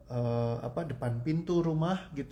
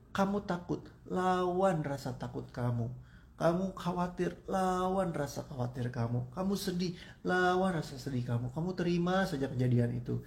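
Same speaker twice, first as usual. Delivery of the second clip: preachy advice; 5 semitones higher than usual. Retold or imitated. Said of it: "Biasa kan orang bilang".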